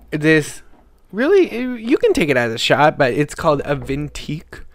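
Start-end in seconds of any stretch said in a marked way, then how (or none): 3.1-4.6 "Vintique" with an extra T sound; mispronounced name. Real, not acted. Host misreads the bottle's label, saying "Vintique" with a T. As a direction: misread it as "Vintique", T before the last syllable. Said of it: "There's no T in there".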